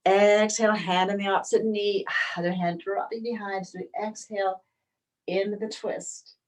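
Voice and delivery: unhurried yoga teacher, long pauses between phrases; spacious, breath-led instruction; guided yoga meditation. Real, not acted. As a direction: guide them gently into breath and stretch. Leads yoga breathing practice.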